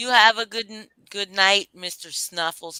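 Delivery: put-on New York accent. Saying good night on the panel, imitating a new york accent. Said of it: "am I doing your your accent right".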